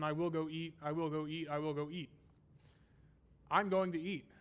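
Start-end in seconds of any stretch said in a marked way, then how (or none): 0.0-2.1 "I will go eat" repeated evenly, leaning on "will"; emphasis by repetition. Shown as a demonstration. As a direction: hammer "I will go eat" as an identical refrain. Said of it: "what is the emphasis on".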